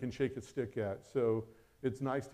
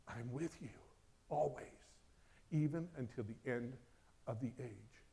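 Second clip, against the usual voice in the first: God's reassurance. Acted. Voices God reassuring the listener.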